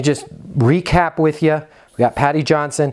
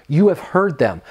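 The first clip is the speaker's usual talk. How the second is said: ordinary talk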